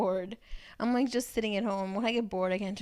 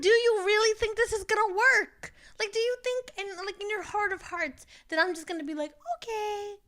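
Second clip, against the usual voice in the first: much higher, disbelieving retort; incredulous; 11 semitones higher than usual. Retold or imitated. Retelling her reply to a late caller, high and incredulous. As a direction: pitch it way up in disbelief.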